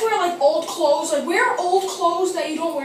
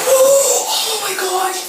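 loud, slow, drawn-out cry; long shocked cry; 4 semitones higher, 7 dB louder, much slower than usual. Real, not acted. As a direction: stretch it out in shock. Going back into the ice.

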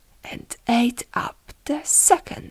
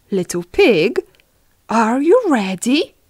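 louder call, lifting on the question; wolf calling; 2 semitones higher, 7 dB louder than usual. Acted. Wolf arriving to fetch the pig, calling out.

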